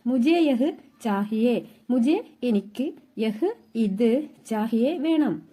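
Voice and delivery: slow, spaced-out model phrase; measured word-by-word delivery; slow teaching pace. Shown as a demonstration. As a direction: say it slowly for learners to follow. Teacher models new phrase slowly.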